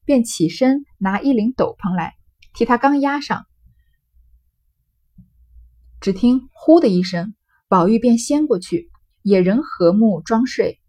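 measured, slightly slow storybook reading; reading classical text aloud. Acted. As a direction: read the old novel out to the class, unhurried. Reads the novel's original text.

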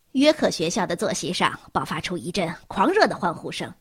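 plain reading voice

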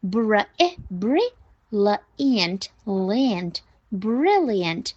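"brilliant" sounded out in separate pieces; broken-down pronunciation. Shown as a demonstration. Teacher breaking the word down, broken-down pronunciation. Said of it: "发得很夸张".

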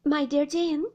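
a touch of faltering protest; plead, slightly abashed. A narrator's reading. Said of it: "faltered my mother".

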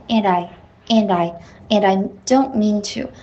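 and I joined as "an-dai"; firm, repeated link of and into I; linked reading. Shown as a demonstration. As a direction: model and I as one linked word. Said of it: "你的and和I还是没有连读起来".

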